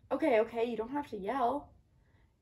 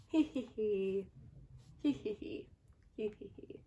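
giggling; 2 semitones lower, 8 dB quieter than usual. Acted. Hidden eggs giggling.

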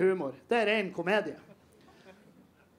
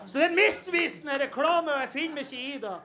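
mock outrage; 6 semitones higher than usual. Real, not acted. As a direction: puff up with fake indignation, then rush on. Indignant rant about the ad.

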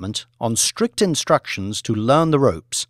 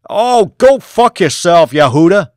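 angry snap; 6 semitones higher, 11 dB louder than usual. Acted. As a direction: spit the insult down the phone. Angry reply on phone.

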